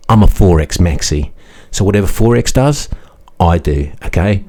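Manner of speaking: a hint of a hedging finance bro; Kenny impression. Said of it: "I'll go through what he said verbatim".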